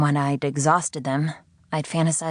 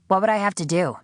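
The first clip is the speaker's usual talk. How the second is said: intrigued question; 5 semitones higher, faster than usual. Acted. The prisoner asking her captor, higher intrigued question. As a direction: lean in, interested despite yourself. Sydney asks.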